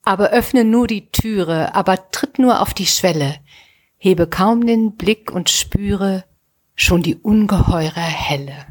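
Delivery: measured, deliberate verse reading; unhurried poetry reading; poem recitation. Real, not acted. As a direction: recite the rhymed lines with space between them.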